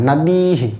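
"নদীহি" with dii held long and hi brief; long ii, short hi. Shown as a demonstration. Teacher shows long i before visarga, demonstrating pronunciation. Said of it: "এখানে দীর্ঘ ইকার আছে".

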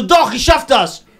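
high, slow, laughing through the boast. Retold or imitated. To friend, laughing about hitting the house. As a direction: giggle while telling it. Retelling crash into wall, laughing.

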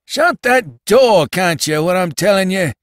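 put-on high, loud, exasperated old cabman; increased asperity. A narrator's reading. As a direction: drag out the order with real sharpness. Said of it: "with increased asperity".

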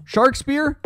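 incredulous. Real, not acted. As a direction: voice shooting way up in disbelief. Last hope combination gets a result.

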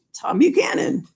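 breathy whisper of the name. Retold or imitated. Teacher whispering Tom's name to the class. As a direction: whisper it for effect.

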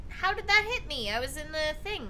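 high, loud disbelieving outburst; raging gamer. Real, not acted. Hit unfairly in game.

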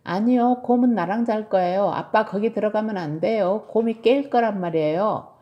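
put-on insistent little kid; protesting child. Tilly stops dad going into the bedroom, protesting child. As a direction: object firmly in a child's voice.

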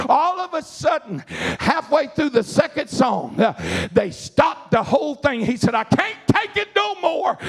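full-force preaching. Real, not acted. Preacher telling the church of the deacon's revival, fervent rising preaching.

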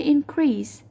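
increase stressed on the second syllable, in-CREASE. Shown as a demonstration. Teacher showing students the verb, increase stressed on its second syllable. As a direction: lean on the end of increase. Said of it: "đánh trọng âm vào âm thứ hai".

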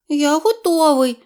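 high, small kitten voice; a shy wet kitten says thanks; grateful kitten. A narrator's reading. Kitten thanks the duckling in a high voice.

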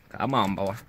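low, deep call. Pretend. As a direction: drop the voice way down. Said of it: "my voice is really deep".

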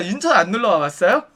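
lightly voiced hostess question, rising at the end; chatty hostess. Hostess keeping a customer talking, chatty questioning. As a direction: ask with a lifted, lingering ending.

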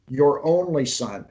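"only" stressed, phrase slowed down; measured emphasis, weight on "only"; emphatic quote. Retold or imitated. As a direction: lean slowly on "only" to drive it home. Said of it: "But God is emphasizing".

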